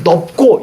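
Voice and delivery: 넓고 said as 넙꼬; wrong pronunciation. Shown as a demonstration. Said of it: "라고 읽으면 안 돼".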